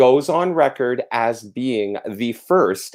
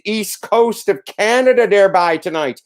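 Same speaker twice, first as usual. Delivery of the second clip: put-on East Coast accent; 7 semitones higher than usual. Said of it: "That's a horrible accent".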